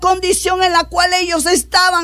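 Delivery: insistent, sustained pulpit fervour; impassioned preaching. Acted. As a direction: preach it with rising urgency. Preaches at full force.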